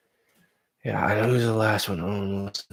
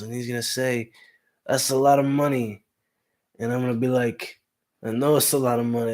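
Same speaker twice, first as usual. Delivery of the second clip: a lightly voiced, higher De Niro mobster; lazy De Niro take with a higher pitch; Robert De Niro impression; 4 semitones higher than usual. Streamer doing a De Niro impression for chat, lightly voiced. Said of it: "That's my Robert De Niro".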